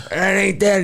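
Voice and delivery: high-pitched mock old-man voice; old man Earl retort. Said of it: "but Earl's like".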